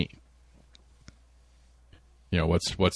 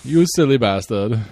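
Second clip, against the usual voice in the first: mock Finnish accent; 3 dB louder than usual. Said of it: "not sure how good my accents are".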